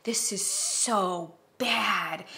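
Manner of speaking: hushed horrified whisper, slowing down; whispered dismay. Retold or imitated. Candle buyer whispering her shock at a bad candle. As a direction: whisper it like a guilty secret. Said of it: "that I was like".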